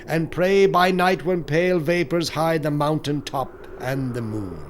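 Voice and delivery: usual speaking voice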